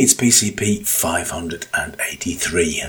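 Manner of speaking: croaky voice from a cold; husky croaky voice, sore throat. Real, not acted. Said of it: "the croaky voice".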